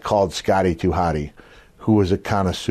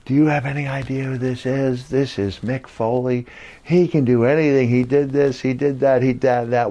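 imitating an excited fan, higher pitched; crazed fan; 4 semitones higher than usual. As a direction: gush like a star-struck fan listing feats. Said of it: "this crazed fan comes over".

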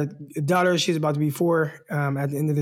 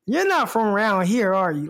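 Southern accent imitation; 3 semitones higher than usual. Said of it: "You got that down pretty good".

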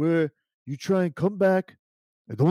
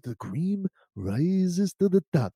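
Macho Man line; 3 semitones lower, 4 dB quieter, slower than usual. Shown as a demonstration. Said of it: "Say something like".

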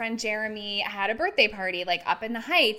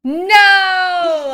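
high, loud shocked scream of No; shocked shout; 9 semitones higher, 16 dB louder than usual. Real, not acted. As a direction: blurt it out in disbelief. Shocked reaction to celebrity news.

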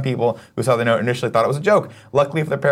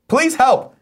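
high-pitched plea, hammed up; mock cry for help; 4 dB louder than usual. Reading a trapped repairman's note on a podcast, mock desperate plea.

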